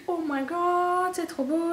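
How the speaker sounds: breathless whispered gasp of delight; awed whisper. Retold or imitated. Vlogger reliving seeing the palette, awed whisper. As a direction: whisper it like you just spotted treasure. First sees Too Faced palette.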